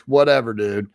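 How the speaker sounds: dismissive little laugh, then casual; brushing it off. Retold or imitated. Drinker answers insult in busy bar, brushing it off. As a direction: act out shrugging off an insult. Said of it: "I'm trying to brush it off".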